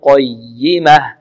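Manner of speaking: قيمة slow, leaning on a held double y; stressed doubled ya. Shown as a demonstration. Teacher showing the shadda, doubled ya. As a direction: press the ya in قيمة, qay-yimah. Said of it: "والياء هنا مشددة، نبر".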